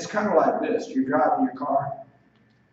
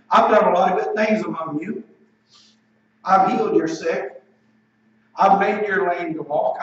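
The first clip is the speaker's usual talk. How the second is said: firm, slightly raised preaching delivery; emphatic challenge; 3 semitones higher, 4 dB louder than usual. Acted. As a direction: put a mild challenge into each phrase. Acts out Jesus challenging his stoners.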